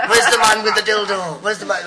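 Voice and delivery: imitated heckler bellowing from the back; mock rowdy heckle. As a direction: shout it like a drunk lad in the crowd. Rowdy lads heckling the comic.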